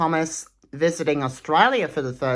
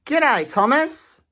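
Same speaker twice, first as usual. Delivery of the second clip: higher, slow drawn-out greeting; Shane's g'day; 10 semitones higher, slower than usual. Acted. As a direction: stretch out a cheery g'day. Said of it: "there's that guy saying".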